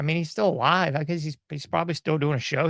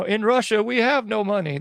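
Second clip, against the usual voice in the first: light mock Russian accent, pitched up; hammed-up Russian accent; 4 semitones higher, 3 dB louder than usual. Podcaster mimics an eighties comedian's shtick, mock Russian accent. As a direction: put on a comic's Russian accent. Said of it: "his accent was terrible".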